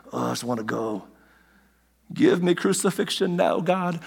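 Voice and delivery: weary mock groan, held back in volume; put-on exasperated plea. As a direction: imitate someone utterly fed up and wanting out. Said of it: "he's exasperated again".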